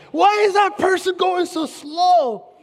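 mock road rage, hammed-up annoyance; impatient driver. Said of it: "and you're like".

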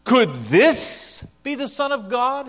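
high, slow doubtful question; mock the crowd's doubt; sceptical crowd. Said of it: "the sense of what they said".

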